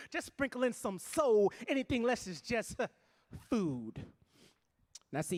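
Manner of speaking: rhythmic stage poetry with rising heat; spoken word poem. Acted. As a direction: perform it like a slam poem for a crowd.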